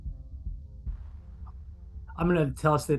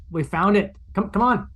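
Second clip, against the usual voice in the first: calling out; 5 semitones higher, 4 dB louder than usual. Acted. Calling down the corridor.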